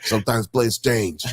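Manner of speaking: intentionally bad New York accent; hammed-up New York delivery; terrible New York accent. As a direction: repeat the line in a mock New York accent. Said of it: "intentionally doing a terrible New York accent".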